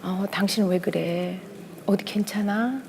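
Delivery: quietly unbothered, as if nothing were wrong; wife imitates her husband's calm reply to her anger, soft and even. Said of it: "아무렇지 않게 침착하게".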